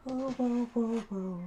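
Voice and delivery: high startled whoa; surprised whoa. Real, not acted. Startled by a yawn.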